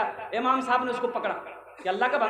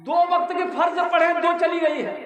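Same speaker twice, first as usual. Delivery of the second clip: higher, scolding the calf in mock anger; mock angry scolding; 5 semitones higher than usual. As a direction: tell off the bawling calf, half-joking. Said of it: "तो इसको गुस्सा आया".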